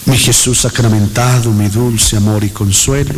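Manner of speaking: devotional invocation. Real, not acted. Leads a repeated devotional invocation.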